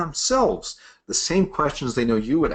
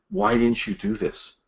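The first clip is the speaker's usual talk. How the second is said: pitched way up, a mild mock yell; mock yelling question; 10 semitones higher than usual. Old boss grilling a sales rep, mock yelling high. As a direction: imitate a boss who sounds like he's yelling. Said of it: "But it feels like yelling".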